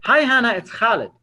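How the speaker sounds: high-starting, familiar hello dropping on the name; casual, chummy phone opener; friendly greeting. Shown as a demonstration. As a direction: greet them like an old friend. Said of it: "Friends talk like this".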